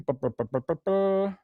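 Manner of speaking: repeated "buh-buh-buh" filler; stalling lip noises. Real, not acted. Host filling time before naming who took the photograph, stalling burble. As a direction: burble a string of quick buh sounds.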